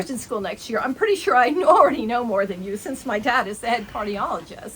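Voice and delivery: fast, lightly voiced know-it-all teen; a hint of a snooty teenager; ditzy teen girl. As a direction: brag breezily to the paramedic.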